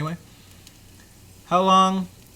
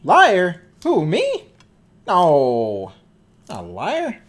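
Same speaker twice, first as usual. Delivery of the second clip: mock innocent denial; 8 dB louder, much slower than usual. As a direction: play the innocent accused. Mock accused and denying.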